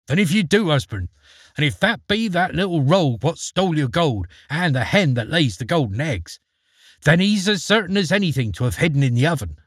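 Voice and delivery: a sharp-tongued giantess setting him straight; ogre's wife. Acted.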